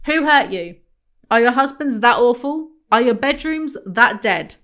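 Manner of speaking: ranting at readers of the book, loud and incredulous. Real, not acted. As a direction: demand answers from bored housewives. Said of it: "ranting at bored housewives".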